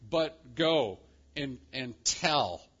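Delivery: slow, deliberate order; weight "go" and "tell" separately; commanding. Acted. Angel sends the women to tell disciples, commanding. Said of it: "is given like a command".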